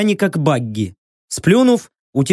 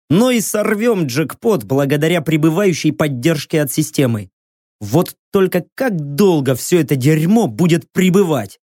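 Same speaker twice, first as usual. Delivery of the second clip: ordinary delivery, nothing marked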